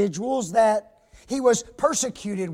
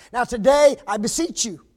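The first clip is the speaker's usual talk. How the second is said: mock formal parent; 3 semitones higher, 7 dB louder than usual. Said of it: "said something like this".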